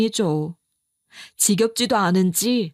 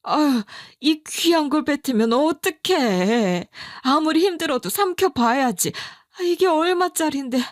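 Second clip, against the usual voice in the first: scolding mother-in-law; 5 semitones higher than usual. Retold or imitated. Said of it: "이렇게 답하시더라고요".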